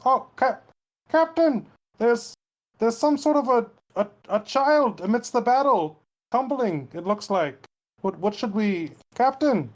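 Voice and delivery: high, halting alarm; high-pitched hesitant report; anxious lookout. Acted. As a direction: call up to the captain, flustered. Lookout alerts captain to child.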